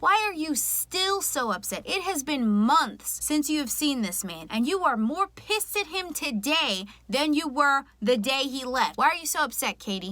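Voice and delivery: pretending to confront Katie as Blake; mock upset Blake. Voicing Blake scolding Katie.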